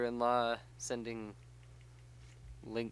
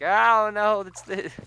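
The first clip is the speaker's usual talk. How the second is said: playing the scared kid, a shrill-free but much higher, louder cry; mock panicked shriek; 9 semitones higher, 10 dB louder, much slower than usual. Dad imitating his daughter's panic at an Enderman, high and loud. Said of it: "And I was like".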